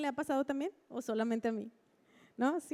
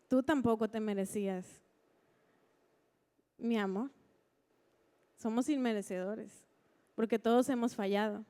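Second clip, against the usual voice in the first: gentle voice of God; 4 semitones lower than usual. Retold or imitated. God's answer, retold gently. (voz de Dios, baja, suave y amorosa)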